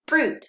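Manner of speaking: "Fruit" said high and loud as one bright beat; emphatic modelled word. Shown as a demonstration. Teacher calling out "Fruit" to the class, high and loud. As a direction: pop "Fruit" up high and firm. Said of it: "one syllable".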